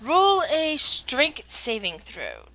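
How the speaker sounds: very slow, stretched-out instruction; drawn-out call. Real, not acted. Game master to player, slow drawn-out roll call. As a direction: draw out each word for suspense.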